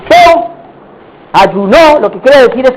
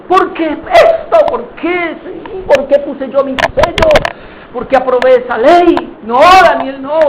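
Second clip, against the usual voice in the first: anguished lament; 3 semitones higher than usual. Acted. Sleepless king regretting his seal on Daniel's fate, anguished. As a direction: lament it as if near tears.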